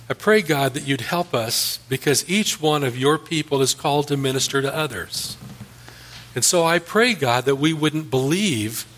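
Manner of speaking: earnest, measured pastor's prayer; closing prayer. Acted. Pastor praying for the congregation and nation, earnest prayer. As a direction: pray it over the congregation, steady and sincere.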